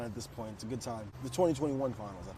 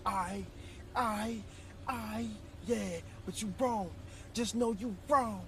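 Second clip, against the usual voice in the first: higher, slow, stuttering protest; stammering high voice; 7 semitones higher, 4 dB quieter, slower than usual. Retold or imitated. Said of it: "I'm like".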